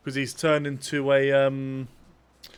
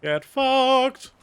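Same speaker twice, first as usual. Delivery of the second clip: higher, louder yell at the enemy; angry shout; 10 semitones higher, 5 dB louder than usual. Real, not acted. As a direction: bark it at the guy you just shot. Yelling at enemy in game.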